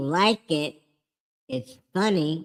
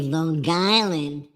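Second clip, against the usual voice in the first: Long Island accent. Shown as a demonstration. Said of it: "being from Long Island, we say".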